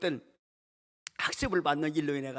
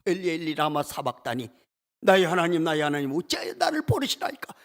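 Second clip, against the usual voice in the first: a cry that swells louder on 나의 하나님; anguished outcry; 3 dB louder than usual. Acted. Jesus crying out to God from the cross, anguished. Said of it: "이렇게 절규를 해도".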